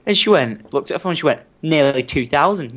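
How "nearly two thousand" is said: slow, mildly boastful retold answer; showing off. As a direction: imitate a sister showing off a little, drawn out. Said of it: "you know, showing off".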